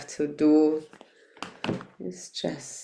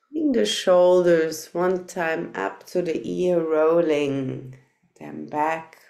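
unhurried guiding voice with long pauses; guided meditation. Real, not acted. Teacher settling meditators into loving-kindness practice, measured guided meditation voice. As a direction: lead them gently inward, phrase by phrase.

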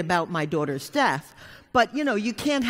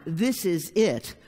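slow, weighty; slower than usual. Shown as a demonstration. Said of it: "was pure pain".

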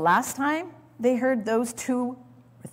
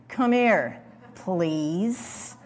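mock weary parent coaxing; parent's exasperated plea; much slower than usual. Parent pleading with a child to come over, mock exasperated. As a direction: coax the child with a sigh. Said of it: "you've said it as a parent".

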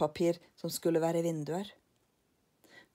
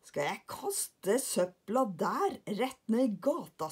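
put-on slow, wondering boy's question; doubtful lillebror; 3 semitones higher, slower than usual. Lillebror doubts throwing rubbish in the street, slow. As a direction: ask it in disbelief.

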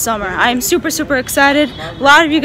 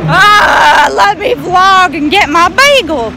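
frustrated shout; 2 semitones higher, 4 dB louder, slower than usual. Real, not acted. Frustrated with street noise.

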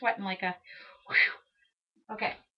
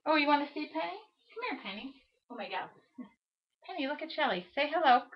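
higher sing-song pet voice, coaxing; cooing to the dog; 5 semitones higher, 3 dB quieter, faster than usual. Real, not acted. Owner coaxing her dog Penny to greet Shelly, higher cooing voice. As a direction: coax the puppy to look at the camera.

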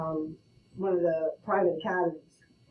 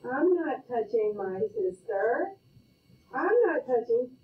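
put-on kid taunting sibling; 3 semitones higher, slower than usual. Sibling taunt in the back seat.

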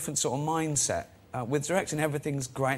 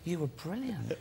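laughing praise; 3 semitones higher, 3 dB quieter, slower than usual. Retold or imitated. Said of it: "I said".

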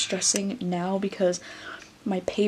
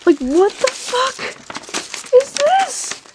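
exasperated disbelief; 5 dB louder, much slower than usual. Real, not acted. Holding up the shredded book.

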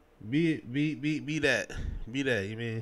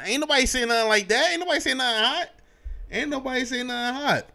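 insistent; 9 semitones higher than usual. Real, not acted. Insisting nobody provoked him.

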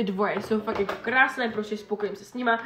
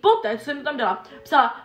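usual speaking voice

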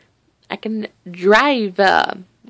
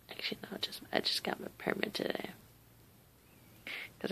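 whispering; 21 dB quieter, faster than usual. Real, not acted. Correcting himself sheepishly.

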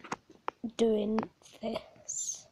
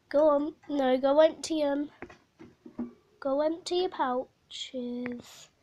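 louder urging pet voice; coaxing; 2 semitones higher, 5 dB louder than usual. Real, not acted. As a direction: egg the hamster on. Coaxing hamster to empty pouches.

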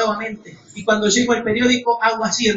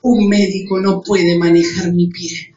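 retold prayer; 4 semitones lower, slower than usual. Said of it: "yo le dije".

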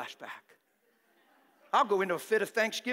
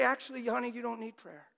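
gentle; 4 dB quieter than usual. Shown as a demonstration. Preacher gently answering a hurting churchgoer, tenderly. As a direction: say it with a gentle smile. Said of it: "I'm gonna look at you gently".

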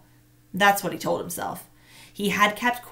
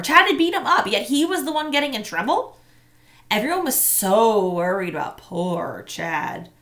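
high, loud outraged disbelief; indignant; 4 semitones higher, 6 dB louder than usual. A narrator's reading. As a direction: sound wronged and bitter. Narrated inner outrage.

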